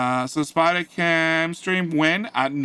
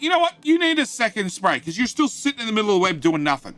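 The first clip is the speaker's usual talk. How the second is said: talking to the spider; 6 semitones higher than usual. Retold or imitated. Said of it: "I was like".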